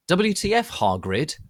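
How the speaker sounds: high, hammed-up outraged yell; a hammed-up angry outburst at Hargrid; mock angry shout. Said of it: "I shouted angrily".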